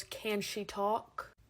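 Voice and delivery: slow, flat clerk; slow clerk question. Retold or imitated. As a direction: drawl it like a bored clerk. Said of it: "The woman goes".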